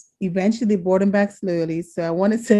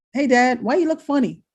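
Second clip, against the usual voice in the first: higher, curious half-laugh to Dad; puzzled question; 5 semitones higher than usual. Retold or imitated. Daughter asking her father in hospital, puzzled and higher. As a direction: ask Dad why he looks strange.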